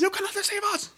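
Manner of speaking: hammed-up replay of the old man; mock old man cry. Repeats the catchphrase for S1.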